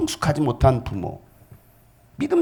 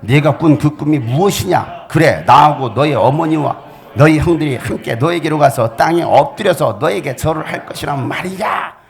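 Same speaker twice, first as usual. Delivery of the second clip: louder stern rebuke; father scolding; 2 semitones higher, 6 dB louder than usual. Acted. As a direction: scold the son sharply. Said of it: "꾸짖었다". (큰 소리로 꾸짖는 아버지)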